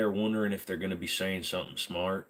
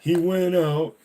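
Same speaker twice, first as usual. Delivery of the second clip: higher, louder dummy voice; ventriloquist dummy; 8 semitones higher, 6 dB louder, slower than usual. Pretend. Dummy announcing Bob is back to chat, higher and louder. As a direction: puppet talking without moving lips.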